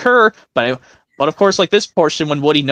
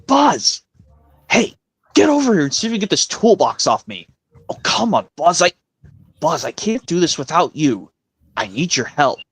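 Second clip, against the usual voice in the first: lightly voiced cartoon cowboy; a hint of Woody pleading; Woody impression. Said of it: "this impression where it goes".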